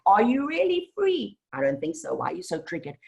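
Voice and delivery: lightly voiced universe teasing you for thinking you're free; the universe taunting. The universe challenging the listener, lightly voiced with mock scorn. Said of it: "The universe is coming back".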